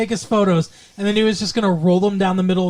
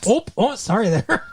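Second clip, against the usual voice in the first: put-on Michigander accent; 2 semitones higher than usual. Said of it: "Michigander accent".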